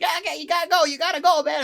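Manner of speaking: high, loud frantic shouting; imitated manager yelling. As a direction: yell urgently at an intruder. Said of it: "he never yells. He was just like".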